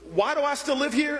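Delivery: amused echo. Retold or imitated. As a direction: toss his question back at him, amused. Miss Jones repeats his question.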